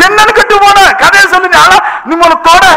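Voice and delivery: high, impatient acted rebuke; retold scolding. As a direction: scold the weeping caller, re-enacted. Pastor scolding a crying caller. (அதட்டிக் கேட்பது போல)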